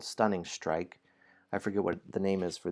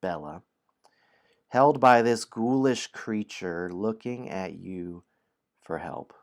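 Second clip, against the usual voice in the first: story narration. A narrator's reading. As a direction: read it like a bedtime adventure. Reads the story aloud.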